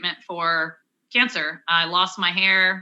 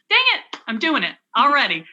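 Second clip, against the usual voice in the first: real sigh as tears start, voice jumping up; mother admitting she is tearing up again, voice breaking; getting emotional; 4 semitones higher than usual. Real, not acted. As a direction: catch yourself starting to cry. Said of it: "This is where I always get emotional".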